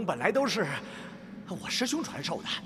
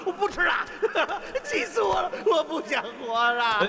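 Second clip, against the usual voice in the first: put-on childish tantrum; 7 semitones higher, 4 dB louder than usual. Old man throws a tantrum.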